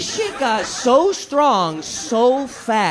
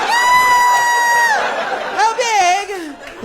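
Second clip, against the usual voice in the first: high loud alarmed squeal; learning he took too big a hit; panicked shriek; 4 dB louder, much slower than usual. Retold or imitated. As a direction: yelp in sudden panic.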